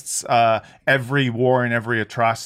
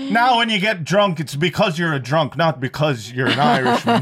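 mock Irish accent. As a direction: deliver the punchline in comic Irish. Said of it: "so to do the accent".

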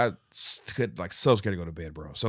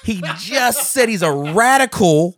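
real laughter while retelling; laughing; 8 semitones higher, 9 dB louder than usual. Real, not acted. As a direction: laugh while getting the words out. Retelling, cracking up.

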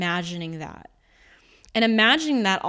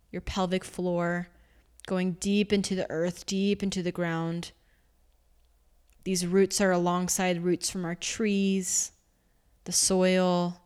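guided meditation. Acted. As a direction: ease the listener down into the earth, gently. Guides a grounding exercise.

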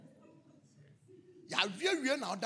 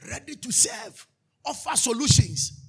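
a little louder, slow eager reply; the eager nurse ready to help; 5 semitones higher, 10 dB louder, slower than usual. Retold or imitated. Nurse answering the pastor's call, slow and eager. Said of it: "she'll come and say".

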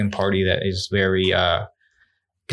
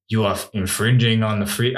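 Arnold Schwarzenegger. Acted. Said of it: "No, do the voice".

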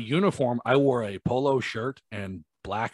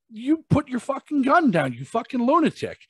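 retold angry shout; 13 semitones higher than usual. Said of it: "back and forth screaming argument".

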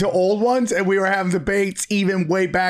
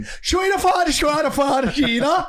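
high, yelled fake Hungarian gibberish; hammed-up Hungarian nonsense; mock Hungarian accent; 5 semitones higher, slower than usual. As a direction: bark out made-up Hungarian.

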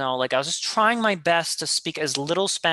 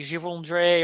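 bad American-accented French; 3 semitones higher than usual. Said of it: "I would say it with the worst possible accent".

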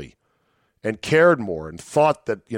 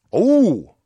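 high bright fake-cheery "Oh"; a high, hammed-up gasp of pleasure; mock delighted oh; 8 semitones higher, 5 dB louder than usual. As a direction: gush over the headline in mock delight.

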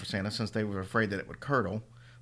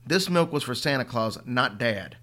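stubborn; 4 dB louder than usual. Acted. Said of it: "his old stubborn self".

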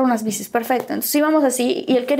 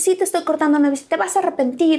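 higher, quick-fire quarrel exchange; heated retort; 5 semitones higher than usual. Retold or imitated. Couple breaking up on bikes, quick heated retorts. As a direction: fire the lines back without a gap.

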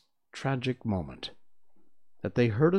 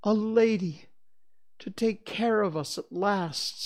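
put-on a boy's high voice; higher child voice; 11 semitones higher than usual. A narrator's reading. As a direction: voice it as a young twin. Twin longing.

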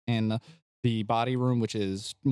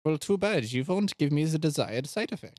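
lightly accented, put-on doctor voice; secretive doctor; 5 semitones higher, faster than usual. Doctor hides the potion's side effect, coyly secretive. Plays Doctor Valentine in scene.

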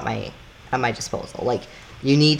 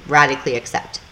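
lightly voiced other driver, higher, easy and forgiving; 4 semitones higher than usual. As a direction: play the other driver, higher, brushing it off kindly. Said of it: "they'll be like".

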